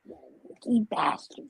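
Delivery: slow muttered whisper. Real, not acted. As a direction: breathe it under your breath. Muttered at the lucky team.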